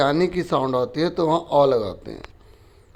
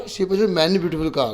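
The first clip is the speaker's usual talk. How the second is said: slow reading; much slower than usual. Shown as a demonstration. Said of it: "teacher tries each option".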